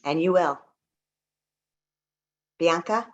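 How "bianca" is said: ordinary delivery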